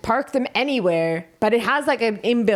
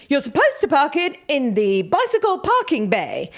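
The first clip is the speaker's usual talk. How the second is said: mildly indignant posh English lady, higher; irate posh old woman; 4 semitones higher than usual. Retold or imitated. Old woman telling cyclist where to park, mock-irate posh voice. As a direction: lightly imitate a posh woman scolding. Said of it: "she was really irate".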